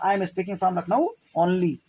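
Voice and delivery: slow, stress on Lucknow; emphatic demo. Shown as a demonstration. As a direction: hit Lucknow, read the rest slowly. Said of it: "word पर जोर देकर जब बोलते हैं".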